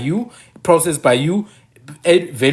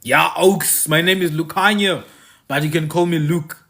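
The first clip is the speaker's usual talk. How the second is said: mock anglicized voice. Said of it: "Speak like this".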